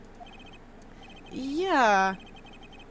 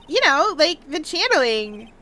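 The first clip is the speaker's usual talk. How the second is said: put-on Valley Girl accent. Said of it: "do a Valley Girl accent".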